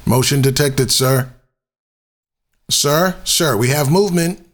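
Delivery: very high, eager minion voice; high squeaky henchman. Acted. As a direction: report it like a jittery little sidekick. Excited henchman report in demo.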